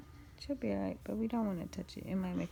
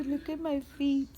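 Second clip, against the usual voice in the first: put-on louder, cutesy baby voice; voicing the baby; 4 semitones higher, 5 dB louder than usual. Mother voicing the baby to papa, cutesy. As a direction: put words in the baby's mouth, sweetly.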